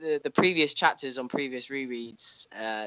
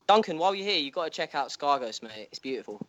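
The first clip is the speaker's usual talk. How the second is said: butler voice; 2 semitones higher than usual. Pretend. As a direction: play a fussy butler. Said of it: "do a Skagos butler voice".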